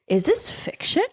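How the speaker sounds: rising, fast, high panic; high panicked. Retold or imitated. Retold inner panic quote.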